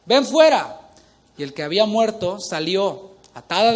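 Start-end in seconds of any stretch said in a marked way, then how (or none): 0.0-0.8 high, loud commanding call; big, raised-voice summons from scripture; loud cry. A narrator's reading. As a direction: call the dead man out in a great voice. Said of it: "clamó a gran voz".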